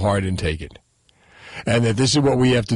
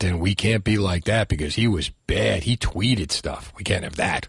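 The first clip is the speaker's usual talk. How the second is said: lower, softer deadpan sarcasm; sarcastic mock; 5 semitones lower, 3 dB quieter than usual. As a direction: mutter the official line with scorn. Sarcastic mock of official stance.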